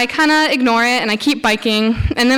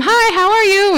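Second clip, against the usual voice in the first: high, loud friendly greeting shouted; cheery scream; 11 semitones higher, 4 dB louder than usual. Retold or imitated. Yelling hello at a silent man while biking past. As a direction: yell hello up high to get his attention. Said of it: "I scream".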